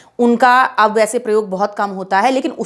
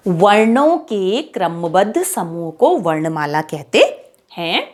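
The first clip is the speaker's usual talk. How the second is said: slow, word by word for the class; teacher dictating slowly; slow dictation; 3 semitones lower, slower than usual. Shown as a demonstration. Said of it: "किसे कहते हैं वर्णमाला बच्चों?".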